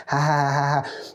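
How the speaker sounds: mock laughing along; fake laugh. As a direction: laugh along hollowly, imitating yourself. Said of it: "Everyone was laughing. I was like".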